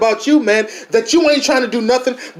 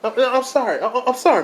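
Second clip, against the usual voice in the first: hushed apology; 5 dB quieter than usual. Acted. Apologising to neighbour Miss Martha.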